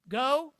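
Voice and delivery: the verb "Go" barked out loudly; stressed command. Shown as a demonstration. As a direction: GO punched out loud and high. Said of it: "listen to the verbs".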